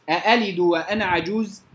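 أألد with the second hamza eased, between hamza and alif; softened second hamza. Shown as a demonstration. Quran teacher reciting to students, eased hamza. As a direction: say أألد with a light, eased second glottal stop. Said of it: "وردت في موضعين في القرآن".

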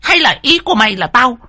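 jab each accusation at the maid; a spiteful daughter bullying the maid; shrill accusing screech. A narrator's reading. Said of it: "cái giọng the thé".

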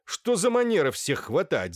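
doctor shouting angrily at the porter to let the man go; angry shout. A narrator's reading. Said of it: "закричал на швейцара доктор".

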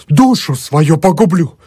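high, slow fervent vow; earnest vow. A narrator's reading. Emelyan vowing to take the sin on himself, high fervent vow. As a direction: swear it fervently.

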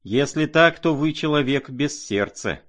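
Aglaya's cry of reproach; angry cry. A narrator's reading. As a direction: hurl the reproach at him. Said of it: "вскричала Аглая".

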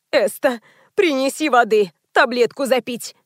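plain reading voice

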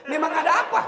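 high, loud laughing question; mock gossiper. Preacher mimics gossip about the wedding, high and laughing. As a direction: squeak it out like a nosy gossip.

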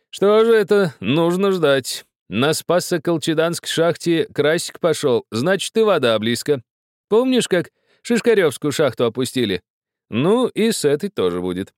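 put-on high, loud, lively old dandy; jovial gentleman. A narrator's reading. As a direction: play the merry host, up and bright. Karachunsky's voiced part.

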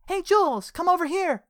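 high shout across the room; calling out. Acted. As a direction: yell for her across the room. Teen girl calling across room.

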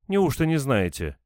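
high-pitched disbelieving question; can't believe they don't know; surprised woman. A narrator's reading. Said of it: "удивилась женщина". (удивлённо, с недоверием)

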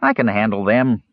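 high-pitched, plucky kender; plucky confidence, starting very high; stout. A narrator's reading. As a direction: say it stoutly in a small hero's high voice. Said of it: "said Earwig stoutly".

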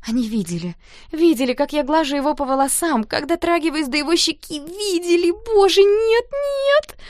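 from shock to near squeal; girl panicking that they saw, rising; rising panic. A narrator's reading. Panicked inner thought.

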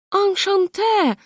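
very high, slow, mannered Enchanté; affected. A narrator's reading. Hostess mincingly greets the American poet. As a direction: sing out Enchanté with affected grace. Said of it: "зафинтила хозяйка".

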